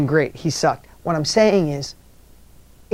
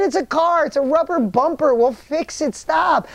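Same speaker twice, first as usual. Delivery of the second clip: high, brisk brushing-off of a worry; retold insistent reassurance; 8 semitones higher than usual. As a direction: talk someone down, pitched up and insistent. Retold reassurance to shaken driver.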